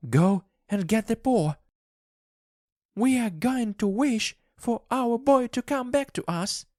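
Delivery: very high, frantic command; high-pitched, feverish insistence; urgent wife. A narrator's reading. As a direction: order him in a high, excited voice. Wife orders husband, excited.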